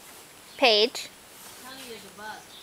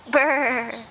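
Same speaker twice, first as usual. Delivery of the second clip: shivering brr. Shown as a demonstration. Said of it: "Do it again".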